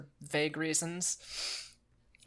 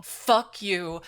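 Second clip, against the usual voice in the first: louder, real annoyance at the game; angry outburst; 3 semitones higher, 7 dB louder than usual. Real, not acted. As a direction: snap it out, fed up with the game. Angry at the game's blocked bridge.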